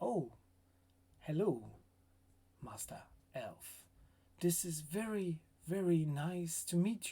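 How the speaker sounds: talking hawk creature voice. Under a speaking spell, the hawk greets the elf who cast it; talking hawk voice. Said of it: "They meet a hawk that seems to be intelligent, / Um, I am in the service of a ranger who speaks to me quite often, and since I am his familiar".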